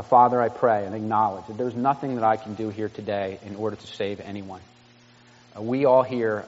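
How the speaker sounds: earnest, measured prayer voice; pastor's prayer. Acted. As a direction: pray aloud over the congregation, sincerely. Pastor prays before the Lord's table.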